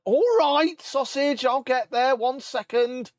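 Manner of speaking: high, cooing pet voice; talking to the cat. Pretend. Streamer coos at his cat, high pet voice.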